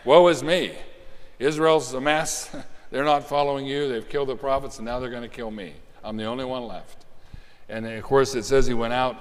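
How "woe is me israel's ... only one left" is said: whiny pity party. Retold or imitated. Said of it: "that was his pity party".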